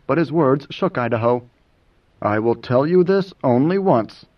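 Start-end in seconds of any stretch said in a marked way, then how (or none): 2.2-4.3 even, settled, soothing tone; calm him after the heated exchange. Acted. Moneo explains to a shaken Idaho, soothing. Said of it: "Mineo spoke in a soothing tone".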